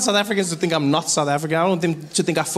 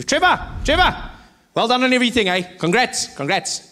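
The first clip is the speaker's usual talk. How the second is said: high-pitched fan calling out; excited fan; 7 semitones higher than usual. Acted. Stranger congratulates the famous comedian, in a high excited fan voice. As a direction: put on an over-familiar stranger, pitched up. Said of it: "Strangest things people would say to me".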